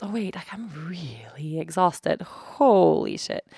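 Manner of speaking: breathy exhausted hush, dragging slowly; tired whisper. Retold or imitated. To herself in the airport, realizing how tired she is, slow whisper.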